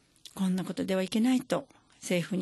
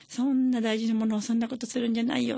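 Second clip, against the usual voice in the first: scolding; 4 semitones higher than usual. Retold or imitated. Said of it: "ってお母さんがもう怒って".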